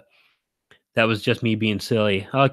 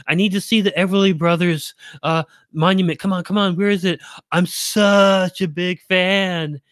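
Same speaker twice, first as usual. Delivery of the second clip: mock starstruck fan; 8 semitones higher than usual. Daring her to gush to the gas station clerk, high squealing fan. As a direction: ham up a frantic superfan. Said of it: "dared her to go into a gas station and be like".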